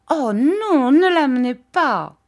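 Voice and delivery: high, loud frightened protest; little terrified air. A narrator's reading. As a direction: beg in girlish alarm. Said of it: "d'un petit air épouvanté".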